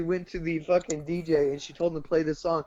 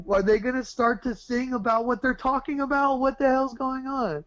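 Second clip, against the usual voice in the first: higher-pitched exasperated grumble; mock annoyed; 6 semitones higher than usual. Moviegoer waiting for the musical numbers to start, mock annoyed. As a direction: ask it in comic impatience. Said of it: "it's kinda pissing me".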